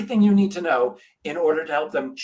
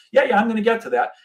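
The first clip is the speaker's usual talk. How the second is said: higher, louder dismissive yeah yeah; mock salesman stalling; brushing off salesman; 7 semitones higher, 5 dB louder, faster than usual. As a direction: wave off the customer's question. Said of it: "He goes".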